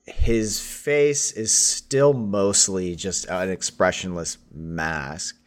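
slow, grave scene setting; game master narration. A narrator's reading. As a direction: paint the scene slowly.

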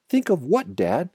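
put-on high-pitched storyteller's young fox; eager child. A narrator's reading. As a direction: pipe up with an urgent question for father. Small fox eagerly questions father.

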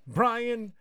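high, loud shouted name; hype shout. Acted. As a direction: belt it out like a ring announcer.

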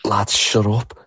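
fed up. Real, not acted. Fed-up rant at a heckler.

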